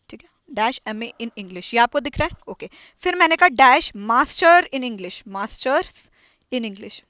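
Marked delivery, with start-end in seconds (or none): 0.5-1.7 slow, soft whisper of dash M A in English; whispered dictation. Shown as a demonstration. Teacher repeating the example under her breath, whispered. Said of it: "देखो example देखो". 6.5-7.0 whispered aside. Shown as a demonstration. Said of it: "softly repeated".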